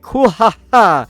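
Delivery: hearty mock laugh. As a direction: boom out a hammed-up laugh, then talk on. Acted hearty laugh of manga warrior.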